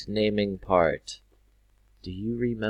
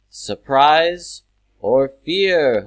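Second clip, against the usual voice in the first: excited; 7 semitones higher, 11 dB louder, much slower than usual. Shown as a demonstration. Teacher acts out strong feelings.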